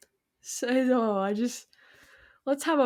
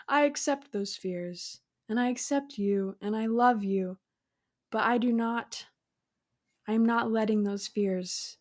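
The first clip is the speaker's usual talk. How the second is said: calm firm reply. Pretend. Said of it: "what you say to Paula".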